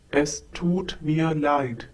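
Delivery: "tut" stretched out with a long U. Shown as a demonstration. Teacher shows learners the long vowel in "tut". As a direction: hold the U in "tut" long and steady. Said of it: "The tut has to be long and not tut".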